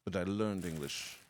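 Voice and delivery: soft mock British accent; put-on British-like accent. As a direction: keep up a spacey, faux-British accent. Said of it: "My accent isn't British".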